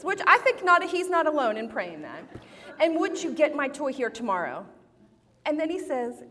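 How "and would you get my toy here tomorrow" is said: put-on mildly cross kid's plea, pitched up; angry prayer. Son asking God for his toy, mildly angry. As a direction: lightly imitate a child's insistent demand in prayer. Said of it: "in a really angry voice".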